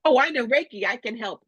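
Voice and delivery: high, bright-eyed eager offer; mock eager rookie healer voice. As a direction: chirp it out like a keen newbie healer. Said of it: "she comes over and says".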